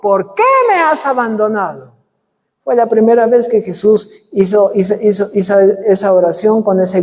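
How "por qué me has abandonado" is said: crying out. Retold or imitated. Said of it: "Él gritó y dijo".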